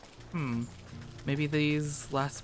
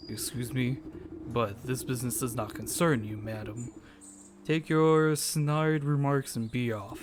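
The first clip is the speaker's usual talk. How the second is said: stern tycoon voice; 3 semitones lower than usual. Acted. Hawk dismisses the heroine.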